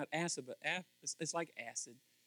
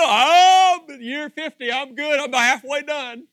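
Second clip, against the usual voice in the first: high, loud cheery reply; cheerful builder; 10 semitones higher, 17 dB louder, slower than usual. Retold or imitated. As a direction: answer brightly, unbothered.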